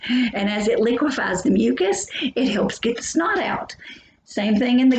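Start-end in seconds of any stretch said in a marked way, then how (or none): 0.1-2.1 sassy "mucus" with a lift at the end; mucus with attitude. Shown as a demonstration. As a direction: give "mucus" some sass, ending up. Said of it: "you kinda have to say it like that when you say mucus".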